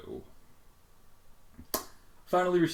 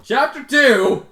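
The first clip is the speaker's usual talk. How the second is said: very high, very loud, slow booming announcement; a mock-grand chapter announcement; announcer call; 20 dB louder, much slower than usual. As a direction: boom it like a game-show host.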